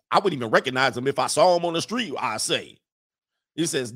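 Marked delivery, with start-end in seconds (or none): 0.1-2.8 quick, lightly voiced Southern rooster; Foghorn Leghorn. Attorney disowning his neighbor on the street, as a light Foghorn Leghorn. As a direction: rattle it off with a dropped rooster tag. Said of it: "read this in my Foghorn Leghorn accident".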